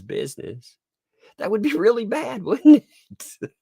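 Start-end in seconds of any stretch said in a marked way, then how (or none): 1.4-3.5 high, sing-song faux-innocent question, laughing; mock innocent sarcasm. Vlogger needling a lawyer, high and mockingly innocent. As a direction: feign innocence, dripping sarcasm.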